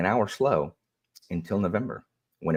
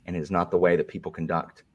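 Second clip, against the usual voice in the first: prim moderator voice. Pretend. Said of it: "if this is the new Alan".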